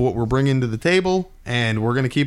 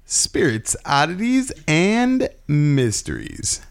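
announcer voice; 3 semitones higher, slower than usual. Acted. Podcast intro announcement.

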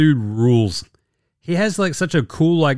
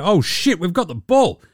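panicking player; 3 semitones higher than usual. Retold or imitated. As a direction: talk yourself in and out of every option. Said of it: "He's like".

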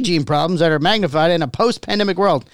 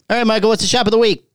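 announcer; faster than usual. Acted. Segment announcement, fast.

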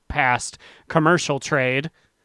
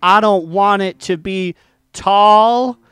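hyped build-up; 5 semitones higher, 4 dB louder than usual. Acted. Hyping the sexiest NPC.

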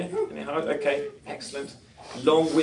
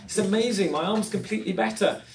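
higher-pitched retold amazement; amazed; 5 semitones higher than usual. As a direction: imitate her astonishment. Retold amazed healed woman.

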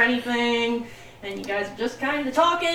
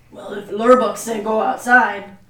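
orc voice; 6 dB louder than usual. Acted. Orc character yields.

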